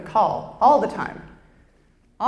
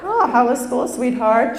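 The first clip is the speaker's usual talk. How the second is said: higher, sing-song mother; mom; 4 semitones higher, 4 dB louder than usual. Pretend. Mom asking child about school, high motherly voice. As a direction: greet sweetly, pitched up.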